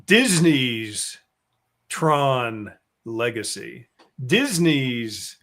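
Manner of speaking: slow, spaced-out brand name; mock official title. Host mocking long branded titles, slow mock-official delivery. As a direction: announce each word with exaggerated care.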